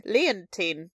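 put-on Leontine with a clear N, lee-un-teen; N in the middle. Shown as a demonstration. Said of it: "there's an N in the middle".

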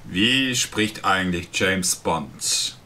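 slow, low suave spy; a lightly voiced James Bond. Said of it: "Nicht so wie du".

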